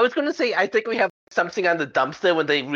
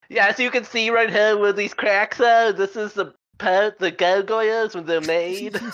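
lecturing instructor; 6 semitones higher than usual. Acted. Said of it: "I'm doing it educationally".

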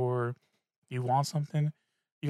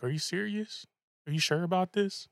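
incredulous; 5 semitones higher than usual. Retold or imitated. Friends doubting his plan.

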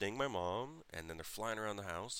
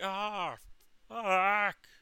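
high, drawn-out falsetto howl; mock mom yelling; 13 semitones higher, 10 dB louder than usual. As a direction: imitate mom wailing a curse at full voice.

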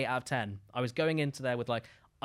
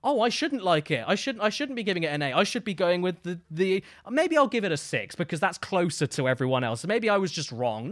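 mock doubting fan; 3 semitones higher, 3 dB louder than usual. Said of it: "They'll look at that and go".

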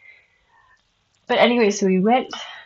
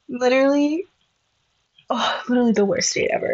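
laughing exclamation; 4 semitones higher than usual. Real, not acted. To the viewers about the worst date, laughing. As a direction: blurt it through a laugh.

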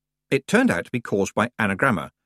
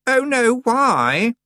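alarmed; 6 dB louder, much slower than usual. Acted. Anagramma alarmed.

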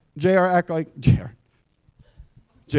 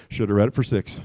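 low, subdued reproach; nagging inner voice; 10 semitones lower, 5 dB quieter than usual. Acted. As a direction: say it low and quiet, as an accusing inner voice. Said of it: "that voice inside you would say".

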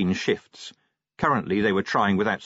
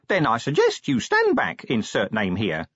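imp voice; 2 semitones higher than usual. Acted. Imp speaking.

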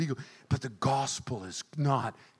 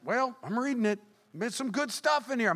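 higher, offhand defensive reply; sheepish teen self; 10 semitones higher than usual. Retold or imitated. Young preacher deflecting his mocking friends. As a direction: shrug it off like a teen.

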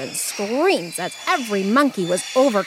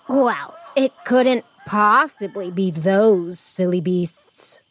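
haughty tigress; slower than usual. Acted. Tiger queen scorns monkeys.

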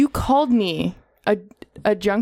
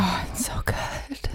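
slow whisper, holding back laughter; trying not to laugh; 8 dB quieter, much slower than usual. Real, not acted. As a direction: whisper while stifling a giggle.

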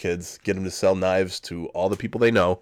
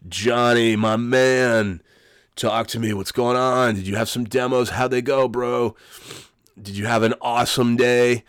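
hyped sports-radio bro voice, a bit louder; pumped-up salesman greeting his buddy, slightly higher; Jim Rome-style bro; 4 semitones higher, 4 dB louder than usual. Retold or imitated. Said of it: "not doing a very good Jim Rome imitation".

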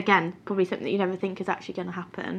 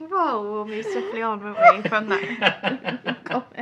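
slow, laughing through the words; 3 semitones higher, slower than usual. Real, not acted. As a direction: laugh while moving things on. Laughing at an awkward joke.

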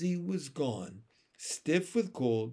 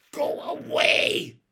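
high, loud, drawn-out shout; fierce little girl driving someone off; 13 semitones higher, 8 dB louder, slower than usual. A narrator's reading. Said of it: "she said fiercely to the strange boy".

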